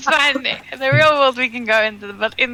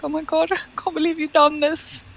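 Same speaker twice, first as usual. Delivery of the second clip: mock offended; 8 semitones higher than usual. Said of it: "He's like".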